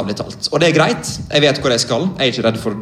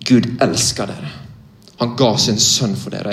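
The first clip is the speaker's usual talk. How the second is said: simple and clear. Retold or imitated. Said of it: "enkelt og klart og tydelig".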